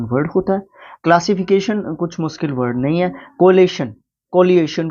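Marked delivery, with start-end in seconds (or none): 3.4-3.9 कोलेशन said as "ko-le-shan", raised and louder; mispronounced variant. Shown as a demonstration. Teacher demoing a pronunciation slip, raised. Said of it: "इस तरीके से बोलने में दिक्कत आ जाती है". 4.3-4.9 कोलिएशन said as "ko-li-e-shan", raised and louder; variant pronunciation. Shown as a demonstration. Teacher showing students another way it's said. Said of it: "इस तरीके से बोलने में दिक्कत आ जाती है".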